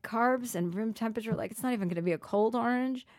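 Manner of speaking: snobbish complaint. Retold or imitated. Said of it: "And I'm like".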